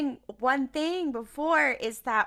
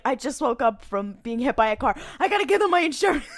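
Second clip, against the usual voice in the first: mocking; 4 dB louder than usual. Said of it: "It's like".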